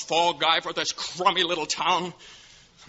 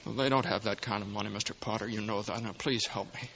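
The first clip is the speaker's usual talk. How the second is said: tag only; 4 semitones lower, 8 dB quieter than usual. Acted. George pleads humbly with Potter.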